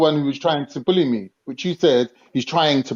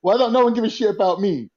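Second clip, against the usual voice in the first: lightly mimicked complaint, pitched higher; mock his grievance in a raised voice; Mike Tyson; 4 semitones higher than usual. Panellist throws his rival's complaint back, mildly mocking. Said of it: "You're saying now".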